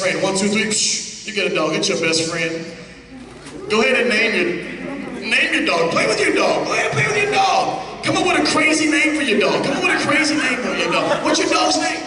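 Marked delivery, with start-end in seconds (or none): 3.7-12.0 excited hype. Acted. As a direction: pump up the crowd with glee. Hyping volunteers with puppies.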